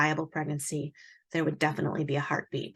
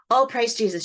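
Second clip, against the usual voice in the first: louder, higher grateful outburst; retold joyful relief; 5 semitones higher, 5 dB louder than usual. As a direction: mildly exclaim it like a friend hearing good news. Friend hears of the heartbeat.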